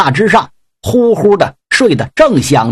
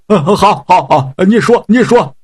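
nod along eagerly, scared; eager meek pig demon; 2 semitones higher than usual. Acted. Pig demon eagerly agrees to obey Yang Jian.

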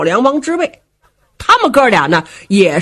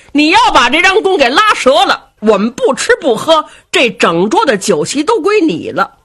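taunting challenge; 5 semitones higher than usual. Acted. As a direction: dare the big black fellow to break the bow. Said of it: "小梁王说话了".

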